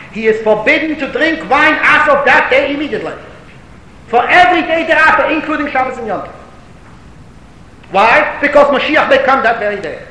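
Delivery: forceful preacher making the point; emphatic preaching. Real, not acted. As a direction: press the proof home with rising force. Preaches the legal proof.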